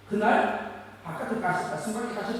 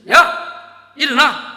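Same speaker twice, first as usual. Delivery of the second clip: sudden loud, higher bark at a dozing pupil; teacher's yell; 5 semitones higher, 16 dB louder, much slower than usual. Retold or imitated. A teacher yelling at a dozing student, loud shout. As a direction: snap a sleeping student awake.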